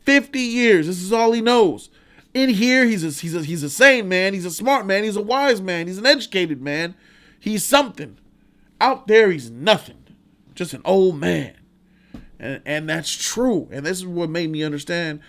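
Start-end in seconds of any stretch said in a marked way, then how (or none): 0.0-11.5 impassioned Red. Retold or imitated. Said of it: "He said".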